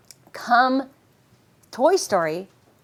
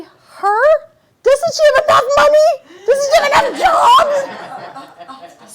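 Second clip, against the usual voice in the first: much higher, louder laughing outrage; outraged shout; 8 dB louder, slower than usual. Retold or imitated. Hearing the Little Mermaid got the part, laughing outraged shout. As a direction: cry out in mock disbelief, laughing.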